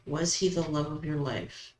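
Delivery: usual speaking voice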